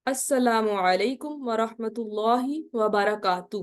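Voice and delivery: slow, full Arabic salam recited word by word; careful recitation. Shown as a demonstration. Teacher showing students the full salam, slow and careful. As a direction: pronounce every syllable of السلام علیکم ورحمۃ اللہ وبرکاتہ slowly and clearly. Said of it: "میں آپ کو دکھاتی ہوں".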